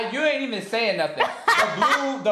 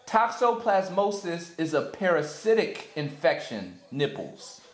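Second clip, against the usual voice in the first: slow, lowered reading voice; deadpan challenge read; 5 semitones lower, 3 dB quieter, slower than usual. Real, not acted. Reading the phrase for the partner to guess, deadpan. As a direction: read it low and measured.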